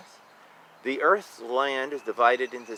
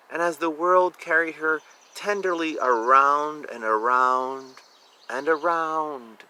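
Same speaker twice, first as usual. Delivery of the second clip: bedtime story narration. A narrator's reading. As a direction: ease them toward sleep. Bedtime ending read aloud.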